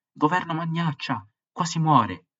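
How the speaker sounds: a desperate crowd member shouting at the government; angry shout. Acted. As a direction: yell it up at the minister. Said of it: "Qualcuno gridò".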